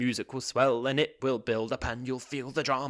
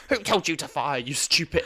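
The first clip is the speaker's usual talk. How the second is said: mock soldier yell; 6 semitones higher, 7 dB louder than usual. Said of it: "he's like".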